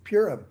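"Purim" said as PYUR-um; first-syllable stress. Shown as a demonstration. Speaker trying out the holiday name, "Purim" as PYUR-um.

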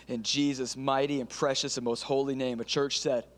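earnest pastor praying aloud, rising in intensity; fervent prayer. Acted. Pastor praying over the congregation, fervent prayer. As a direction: pray over the church, building fervor.

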